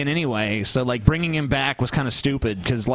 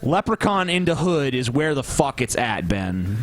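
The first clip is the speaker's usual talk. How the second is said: laughing; 2 semitones lower, slower than usual. Real, not acted. Defending a cult movie.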